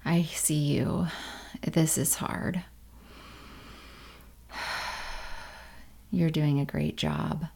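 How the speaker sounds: tender hushed support; soft comforting whisper. Shown as a demonstration. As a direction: comfort a struggling friend in a hush. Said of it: "they might offer you a phrase".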